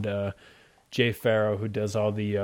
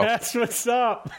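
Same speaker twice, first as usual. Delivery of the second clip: high, slow cool-guy drawl; 12 semitones higher, much slower than usual. Pretend. Playful voiced catchphrase.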